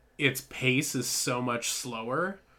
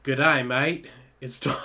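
put-on Russian accent slipping into Australian; a terrible Russian accent; bad Russian accent; 4 dB louder than usual. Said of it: "worst Russian accent".

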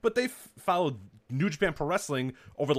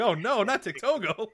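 dismayed; 9 semitones higher, 3 dB louder than usual. Retold or imitated. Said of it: "I was like".

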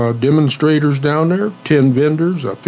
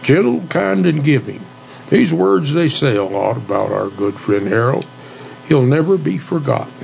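cowboy poetry. Shown as a demonstration. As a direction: recite it like a eulogy poem. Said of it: "I'm gonna do a cowboy poem".

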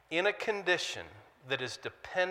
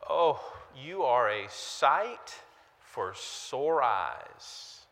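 idiom said slowly; 3 semitones lower, much slower than usual. Shown as a demonstration. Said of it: "Have you heard the idiom".

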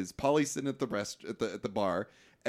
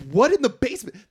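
genuinely baffled; 10 semitones higher, 9 dB louder than usual. Real, not acted.

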